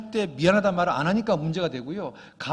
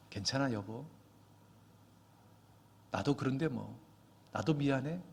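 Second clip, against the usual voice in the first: brightly smiling reassurance; 3 semitones lower, 7 dB quieter than usual. Retold or imitated. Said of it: "또 밝게 웃으면서".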